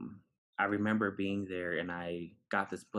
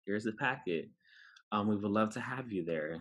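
generic recruiter pitch; 2 semitones higher than usual. Retold or imitated. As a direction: imitate a stock college-fair greeting. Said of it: "it's pretty generic. It's like".

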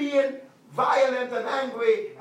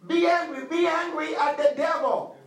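higher and louder, preach it hard; emphatic command; 6 semitones higher, 4 dB louder than usual. Acted. Pastor urging the church against the devil, forceful preaching. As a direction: drive the command home.

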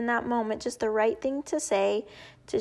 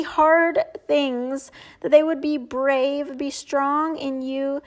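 heartfelt prayer. Real, not acted. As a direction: pray it over listening moms, sincere and unhurried. Ends by praying over listeners.

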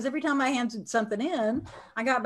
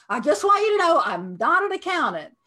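higher and louder, anxious blurted confession; nervous client; 7 semitones higher, 6 dB louder than usual. Retold or imitated. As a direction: play the terrified bookkeeper rushing to confess. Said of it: "And they were terrified".

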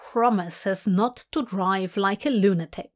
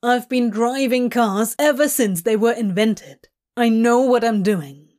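firm, slightly louder irritated retort; weary of an old argument, insistent; Crowley, fed up; 4 dB louder than usual. Acted. Demon driver defending his driving, mildly exasperated. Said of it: "his voice telling that this isn't the first time".

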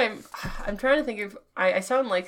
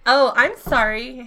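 exclaimed; 5 dB louder than usual. Acted. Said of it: "Hannah exclaimed".

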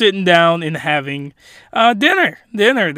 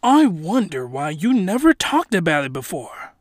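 lightly faked British voice; bad British accent, chatting admiringly; loosely held British character accent; terrible British accent; 3 semitones lower, 5 dB quieter than usual. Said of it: "terrible British accent".

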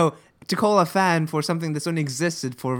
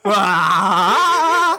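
shout; 4 semitones higher, 9 dB louder than usual. Real, not acted. Burst of energy, shouting.

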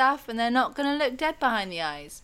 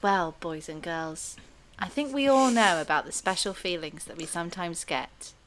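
put-on kids TV presenter; 4 semitones lower than usual. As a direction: talk down gently to little kids. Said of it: "because this is the task".

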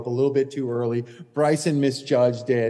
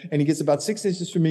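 normal talking voice

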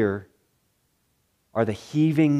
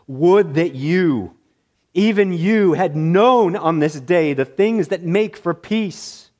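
slow, louder lament with a hint of moaning; mournful moan; 4 semitones higher, 4 dB louder than usual. Jesus lamenting over Jerusalem, slow mournful moan. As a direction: grieve it out slowly over the city. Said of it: "Jesus moans".

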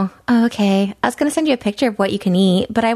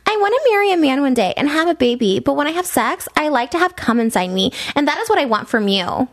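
lightly acted girl reading; girl's message; 2 semitones higher than usual. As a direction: read out her text with a hint of girlish lilt. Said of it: "okay, this is the girl".

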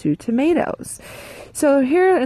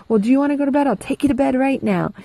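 frustrated mom; 6 semitones higher, faster than usual. Retold or imitated. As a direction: threaten the cranky toddler with bedtime. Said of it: "I'm getting frustrated".

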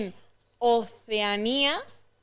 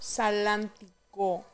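syllable by syllable; 4 dB quieter, much slower than usual. Shown as a demonstration. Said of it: "Sílaba por sílaba".

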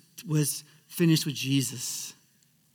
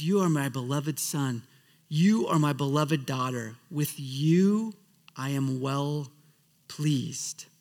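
tender voice of God; 3 semitones lower, slower than usual. Retold or imitated. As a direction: speak it gently like a loving father. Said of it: "He looks at you and says".

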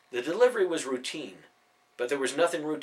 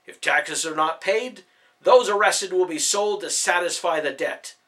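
stern proclamation; 4 semitones higher, 6 dB louder than usual. A narrator's reading. Soldier reads out arrest order.

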